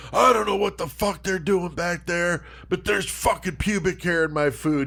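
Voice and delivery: a touch of staged fury; mock outrage. Acting out friend's staged complaint.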